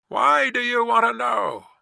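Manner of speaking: high, loud demand; challenging shout. Acted. Guard to stranger in the mist, challenging shout. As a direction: call it back suspiciously.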